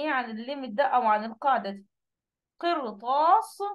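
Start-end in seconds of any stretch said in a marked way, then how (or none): 2.6-3.6 قرطاس drawn out with a full, heavy R. Shown as a demonstration. Teacher showing an exception word to students, heavy ra in قرطاس. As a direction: say قرطاس slowly, keeping the ر thick. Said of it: "بتكون مفخمة عادي".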